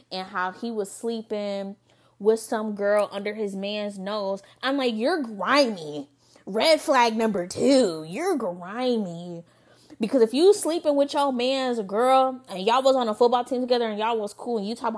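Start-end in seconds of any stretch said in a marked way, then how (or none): 4.9-9.4 slow judging callout. Retold or imitated. Calling out the date.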